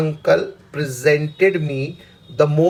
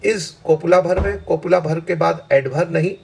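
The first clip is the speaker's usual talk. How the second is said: slow, deliberate grammar point; slow explaining; slower than usual. Shown as a demonstration. Teacher slowly explaining the copula rule to students. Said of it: "that के बाद आपको जोर लगाना है".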